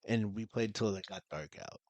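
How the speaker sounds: soft and off the mic, trailing away; too quiet. Real, not acted. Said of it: "Dude, hold the mic".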